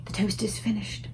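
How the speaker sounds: soft unvoiced whisper; butler whispering. A narrator's reading. The butler whispering bad news to the Queen, unvoiced. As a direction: whisper it discreetly. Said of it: "Mister Tibbs whispered".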